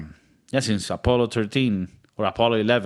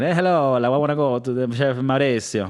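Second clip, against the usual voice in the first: hurried mock-Italian accent; faster than usual. Shown as a demonstration. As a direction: put on a quick, light Italian accent. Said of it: "I go it-, Italian".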